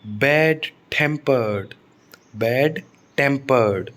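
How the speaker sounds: बैड टेम्पर्ड slowly, in two parts, with weight on टेम्पर्ड; stress on TEMPERED. Shown as a demonstration. Teacher repeating an example adjective, slow stress on the second word. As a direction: lean on the TEM in बैड टेम्पर्ड, then fall. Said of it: "तो टेम्पर्ड पर stress आएगा".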